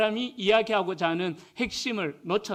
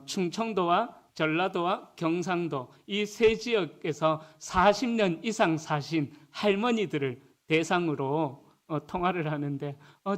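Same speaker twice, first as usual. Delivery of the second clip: ordinary delivery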